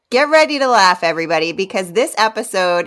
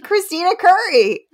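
excited announcement; 9 semitones higher than usual. Acted. Grand host introduction.

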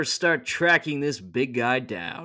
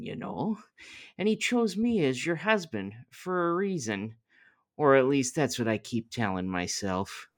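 calming Joseph voice; 3 semitones higher than usual. Acted.

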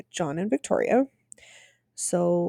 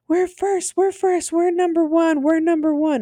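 mock screaming; 9 semitones higher than usual. Man running through forest boasting, high mock yell. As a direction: crow it like a winner running. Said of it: "like, screaming through the forest".

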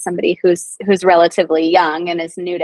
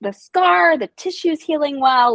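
excited high voice; 6 semitones higher than usual. Retold or imitated. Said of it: "And so she's like".

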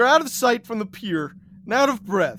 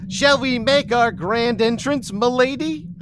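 jaunty; 4 semitones higher, 3 dB louder than usual. Acted. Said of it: "With a jaunty".

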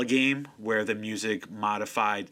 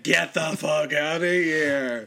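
loud, drawn-out mock disbelief; incredulous outburst; 3 semitones higher, 5 dB louder, much slower than usual. Fan retelling his reaction to a game reveal, incredulous. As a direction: stretch every word slowly in amazed disbelief.

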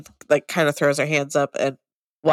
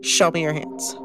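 stern demand. Acted. Demanding to see cut palms.

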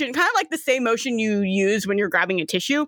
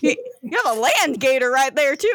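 put-on Southern Florida accent, animated; Southern Floridian gator. Gator remarking on a land gator, Southern Floridian accent. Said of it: "the gators are the full Southern Floridian".

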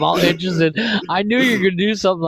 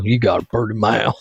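Deliverance line; 7 semitones lower than usual. Retold or imitated. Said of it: "Deliverance one".

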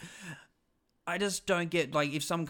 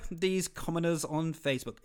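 haughty voice; 4 semitones higher than usual. Retold or imitated. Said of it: "Again, another voice".

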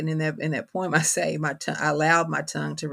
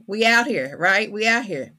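excited; 5 semitones higher, 7 dB louder than usual. Real, not acted.

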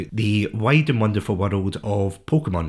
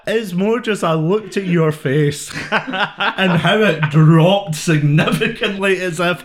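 laughing; 5 semitones higher, 3 dB louder, slower than usual. Real, not acted. Laughing through explanation.

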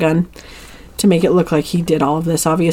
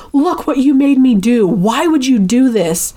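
mild mock yell, pitched up; retold yelling; 5 semitones higher than usual. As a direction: imitate an accusing yell at half force. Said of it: "Luke is just yelling at him".

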